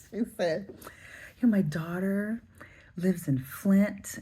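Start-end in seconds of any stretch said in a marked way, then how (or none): 1.4-4.2 imitating her, leaning hard on Flint, slowed; emphasis on Flint. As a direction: stretch out Flint with a rise, mocking her. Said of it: "she put a lot of emphasis on that Flint".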